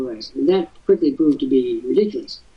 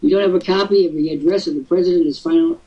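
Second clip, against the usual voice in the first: retold disbelief; 2 semitones higher than usual. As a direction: act out shocked disbelief at the archive. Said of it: "I just went".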